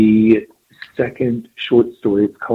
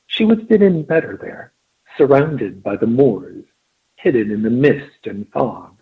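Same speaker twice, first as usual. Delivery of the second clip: put-on affected upper-class English accent; a touch of haughty Queen's English. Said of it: "in an affected Queen's English".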